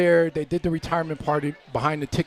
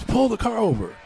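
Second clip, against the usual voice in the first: mock yell; 8 semitones higher than usual. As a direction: retell a mother's insistent order with pitch raised. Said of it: "And then she yells".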